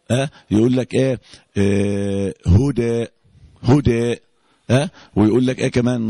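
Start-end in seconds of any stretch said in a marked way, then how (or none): 2.5-4.2 "هدى" with the final a slightly fronted toward e; lightly tilt the ending of "هدى", less than full imala; Warsh taqlil. Shown as a demonstration. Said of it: "في رواية ورش بيقلل على طول".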